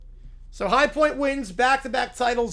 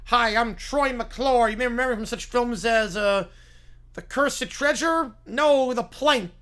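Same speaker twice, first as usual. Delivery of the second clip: Troy McClure voice; 2 semitones higher than usual. Acted.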